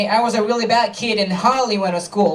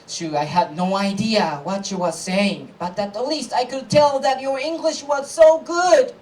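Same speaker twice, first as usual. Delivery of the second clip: lightly acted admiring friend, climbing higher; friend's praise; 3 semitones higher than usual. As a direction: build up to an earnest compliment. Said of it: "of course, he was saying".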